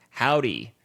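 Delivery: deliberately gross "Howdy". Shown as a demonstration. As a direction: make the greeting sound icky.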